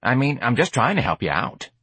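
offhand, with a shrug; shrugging. Acted. George shrugs off the rebuff, mildly defensive.

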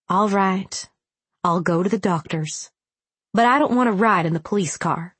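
put-on childish whine, lightly done; whiny. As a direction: sulk like a six-year-old. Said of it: "I sounded like a whiny six-year-old".

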